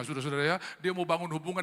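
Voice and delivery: normal talking voice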